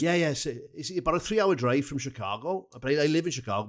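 lightly voiced Pontypridd stand-in; Pontypridd-Merthyr accent. Fan explaining the drive from Chicago, in a light Pontypridd-Merthyr accent. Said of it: "I'll do Miss Pontypridd, uh, slash Merthyr".

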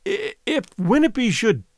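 quavering. A narrator's reading. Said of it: "she quavered".

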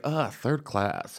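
soft, slow disdainful sneer; snobby sneer. Retold or imitated. Playing Cal, sneering at a frumpy girl, quiet disdain. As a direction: look down your nose at her. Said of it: "So I was Cal".

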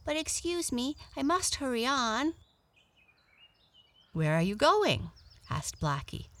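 high, polite animal voice; hurrying little rabbit. Acted. Rabbit leaving to get carrots, high and polite. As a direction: excuse yourself in a high rabbit voice.

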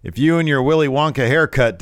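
loud, high mock wrestling promo; Waller. Waller belittling a rival's debut, scornful. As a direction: taunt like a heel on the mic. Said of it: "Waller says, gets on the mic".

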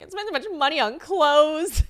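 high, loud mock whine; whiny complaint. Retelling her own upset complaint.

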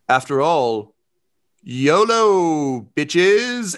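slow, high, booming voice from a hollow suit of armor; booming echo. Acted. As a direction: boom it out like a voice echoing in empty armor. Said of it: "raise her voice, um, to, like, a booming, uh, echo".

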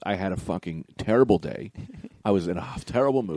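low, subdued confession; retold apology. Clerk explains his bad day, soft imitated apology. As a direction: explain it softly, voice dropped. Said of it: "I'm so sorry".

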